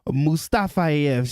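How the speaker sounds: "Mustafayev" drawn out slowly, syllable by syllable; announcer practicing. Pretend. Announcer practicing for his wife, careful pronunciation. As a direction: lightly imitate an announcer testing "Mustafayev" at half pace. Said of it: "he be like".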